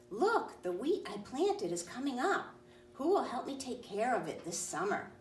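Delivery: high, bright hen voice calling out; excited little hen. Acted. Hen shows her friends the sprouting wheat, high and eager. Hen's voice in story.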